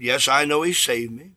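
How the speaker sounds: quietly sure, no show of emotion; calm testimony. Retold or imitated. Convert assuring the minister he is saved, calmly. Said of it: "very calmly".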